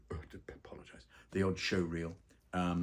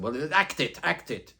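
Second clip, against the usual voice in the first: high, loud "act it"; director's exasperated loud order; insistent; 9 semitones higher, 10 dB louder, slower than usual. Retold or imitated. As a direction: push him to just do it. Director insisting in retold story.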